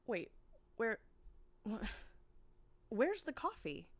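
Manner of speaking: high panicked question; alarmed. Acted. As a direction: ask in rising alarm. Panicked search in store.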